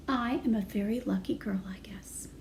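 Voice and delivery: unvoiced whisper, trailing off; whispered aside. Girl muttering her luck under her breath. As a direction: breathe it to yourself. Frances sighing about jam.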